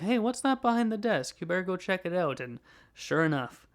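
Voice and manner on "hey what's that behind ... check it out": dad voice. Retold or imitated. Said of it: "his dad says, like".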